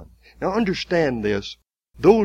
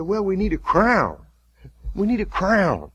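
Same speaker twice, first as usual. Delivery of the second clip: higher, jeering soldier voice; mocking soldiers; 7 semitones higher than usual. Soldiers mocking the prisoner, higher and jeering. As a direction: sneer it like a rough Roman guard. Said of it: "And then they said".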